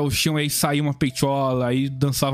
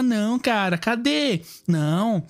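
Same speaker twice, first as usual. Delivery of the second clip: high, huffy mock diva; offended goddess; 5 semitones higher, slower than usual. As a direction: play the neglected goddess demanding attention. Voicing indignant, jealous goddess Amaterasu.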